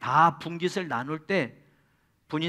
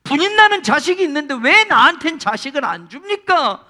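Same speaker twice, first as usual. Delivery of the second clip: higher, louder lament to God; anguished prayer; 7 semitones higher, 10 dB louder than usual. Retold or imitated. Childless woman praying to God, loud anguished lament. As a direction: cry out to God in grief. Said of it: "하고 기도할 때마다".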